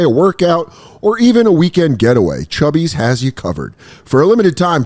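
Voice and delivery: upbeat sponsor read, steady and clear. Acted. Host reads a shorts ad to viewers, upbeat.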